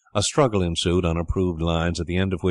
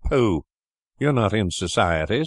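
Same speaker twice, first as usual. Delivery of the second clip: mock-polite scoff; 3 semitones higher than usual. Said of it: "said Edward politely".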